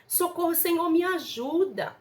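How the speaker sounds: pleading mock cry for help, drawn out; retold desperate cry. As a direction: call out slowly in pleading, without full shouting. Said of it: "Eu gritava".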